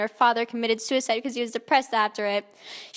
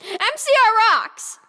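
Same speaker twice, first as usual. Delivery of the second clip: higher, louder, slow band chant; fangirl cheer; 9 semitones higher, 6 dB louder, slower than usual. Acted. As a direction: cheer it like a fan at a concert. Shouting band fan slogan.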